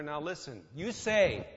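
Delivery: mock God scolding Satan, sternly; pulling rank. God pulling rank on Satan, a mock stern rebuke. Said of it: "fly off the handle then and get angry".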